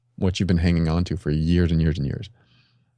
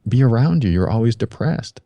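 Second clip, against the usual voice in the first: put-on fed-up girlfriend; 3 semitones higher, 3 dB louder than usual. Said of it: "She goes".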